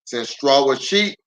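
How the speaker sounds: storybook read-aloud with lively swings; reading to children. Acted. Pastor reading a picture book aloud to kids online.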